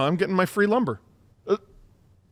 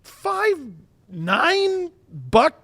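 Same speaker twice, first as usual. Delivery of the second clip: mock hype; 11 semitones higher, slower than usual. Mocking hype of player stats.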